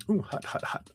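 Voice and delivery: hissing at a hot sip; hot drink reaction. Real, not acted. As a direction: wince at a too-hot sip. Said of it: "Let me take a quick sip here".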